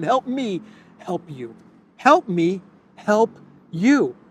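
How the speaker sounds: high, whiny pleading, hammed up; mock begging Putin. Pundit mocking Putin begging North Korea, in high whiny pleading. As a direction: beg like a desperate little dictator. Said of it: "That's what Putin is saying to Kim Jong-un".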